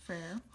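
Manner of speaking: French pronunciation of frère; French word. Shown as a demonstration. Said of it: "the word for brother".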